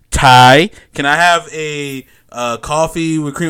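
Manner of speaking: loud, slow chummy customer reading the name tag; overfriendly customer. Retold or imitated. A customer greets the barista by name, loud and chummy. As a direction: call the barista by name like an old pal.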